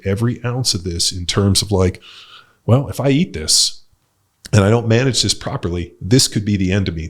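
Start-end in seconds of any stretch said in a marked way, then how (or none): 2.7-7.1 a worried parent imagining the worst, loud and tense; anxious inner voice. Retold or imitated. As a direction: voice the fretting parent doing the sums. Voices anxious diabetic parent's thoughts.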